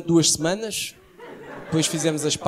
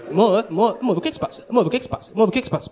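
high whiny repeated amor o que é que se passa; nagging girlfriend; 4 semitones higher, faster than usual. Retold or imitated. Girlfriend pestering him in the car, high whiny nag. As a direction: mimic the girlfriend pestering, pitched up.

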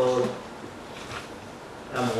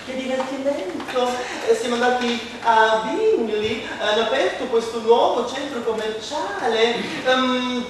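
gushing mother; 6 semitones higher than usual. Acted. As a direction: gush about the day out. Mother voiced returning. (mamma entusiasta, voce più acuta)

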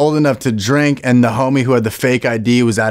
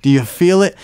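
pushier repeat; 5 semitones higher than usual. Retold or imitated. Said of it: "four people at a circle going".

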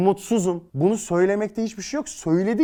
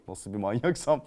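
laughing at himself; 2 semitones lower than usual. Real, not acted. Joking about being a creep, laughing. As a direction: laugh at your own creepy joke. Jokes about watching in shower.

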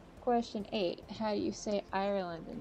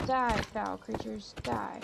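slow, loud mock battle cry; slow, loud hammed-up battle cry at the mobs; mock hero; 4 dB louder, slower than usual. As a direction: ham up a knight's battle cry. Mock-heroic fight with mobs.

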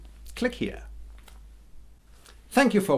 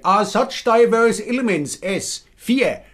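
Hessian accent. Shown as a demonstration. Sketch of the Inquisition bursting in, in Hessian accent. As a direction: bark the Spanish Inquisition lines in a Hessian accent. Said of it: "this is what a Hessian accent would sound like in English".

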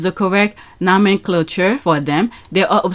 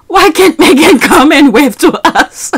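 mimicking the presenter, pitched up; mock his silly question; scornful imitation of the presenter; mocking quote; 5 semitones higher, 3 dB louder than usual. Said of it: "mocking the presenter's question".

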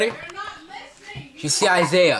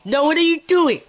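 high loud laughing no; surprised laughing; 12 semitones higher, 7 dB louder than usual. Real, not acted. Parent startled by daughter's antics, laughing.

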